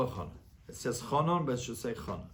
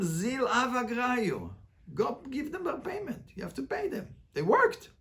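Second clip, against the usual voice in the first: higher voice, firm ruling for the workers; Rav's ruling; 7 semitones higher, 4 dB quieter than usual. Retold or imitated. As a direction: deliver Rav's order raised and firm. Rav orders payment, voiced in story.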